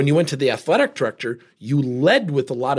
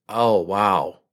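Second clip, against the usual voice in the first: eye-rolling exasperation; 7 semitones lower than usual. Retold or imitated. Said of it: "the husband rolls his eyes and goes".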